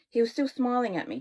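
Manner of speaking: usual speaking voice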